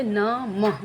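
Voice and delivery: नमः drawn out slowly as one word; slow whole-word नमः for children; slow demo. Shown as a demonstration. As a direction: stretch out नमः smoothly. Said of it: "मह के साथ अह निकल रहा है".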